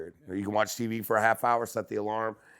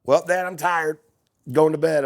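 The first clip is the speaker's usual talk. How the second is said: put-on higher, louder bored-kid voice; imitating son; 7 semitones higher, 8 dB louder than usual. Son telling dad he's going to bed, bored kid. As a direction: play the son brushing dad off.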